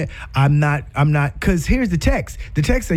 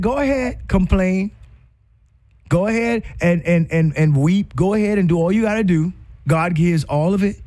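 higher, lively imitation of granddad, lightly voiced; granddad egging on; 3 semitones higher than usual. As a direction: playfully urge them to complain and weep, a hint of an old preacher. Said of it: "you know, he said".

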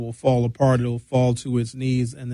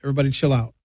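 playful supreme leader voice; mock supreme leader. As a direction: settle down the provinces. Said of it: "the supreme leader was like".

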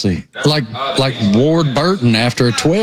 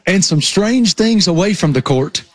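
slightly raised imitation of a young Southern reporter; quoting the report; 3 semitones higher than usual. Teasing co-host with his old line, mock Southern report. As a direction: quote the Southern TV line back at him. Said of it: "What was the line?".

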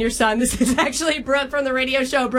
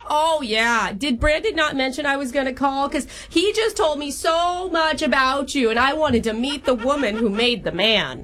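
hammed-up Long Island-Boston-Minnesota mom accent; old Jewish mom accent jumble; horrible jumbled accent. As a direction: play a chatty older girlfriend in a bad regional accent mash-up. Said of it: "doing a horrible accent".

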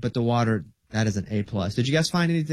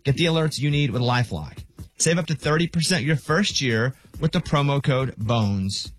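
scripted radio sponsor read. Acted. Host pitching identity protection to radio listeners, ad read. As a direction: read it as a polished promo.

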